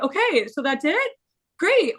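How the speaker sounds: high, bright-eyed quick reaction; eager sister. Retold or imitated. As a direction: imitate sister's rush of relief.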